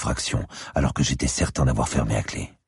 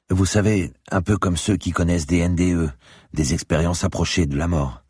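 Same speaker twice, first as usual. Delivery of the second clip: lightly voiced, higher-pitched investigator; criminologist recounting a vision; 4 semitones higher than usual. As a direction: recount it a little higher, absorbed in the experience. (criminologue qui raconte sa vision, voix un peu plus haute)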